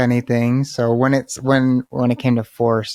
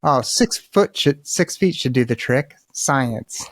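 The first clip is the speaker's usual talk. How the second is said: sarcastic mock of official advice, drawn out; mock the rule as if it were obvious science; slower than usual. Friend mocking pandemic rules in a sarcastic voice. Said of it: "so I started mocking that".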